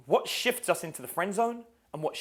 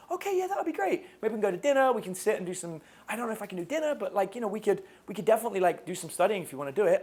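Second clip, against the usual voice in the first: acted nice guy; 5 semitones higher, faster than usual. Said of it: "So I meet a girl".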